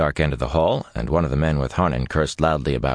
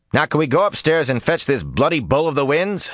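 exasperated; 11 semitones higher than usual. Acted. Exasperated demand.

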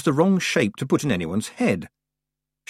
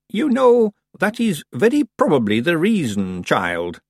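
put-on mild, calm old witch; calmly; 7 semitones higher, 4 dB louder than usual. A narrator's reading. Old witch calmly answering her apprentice. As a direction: settle the child gently. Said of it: "said Miss Treason calmly".

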